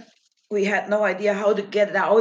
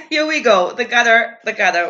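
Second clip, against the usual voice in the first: excited announcement; 2 semitones higher, 7 dB louder, faster than usual. Real, not acted. Announcing arrival at the gutter.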